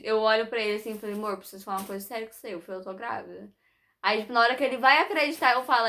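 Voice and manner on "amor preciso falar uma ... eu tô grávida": mock serious confession. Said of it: "eu sempre brinco com ele".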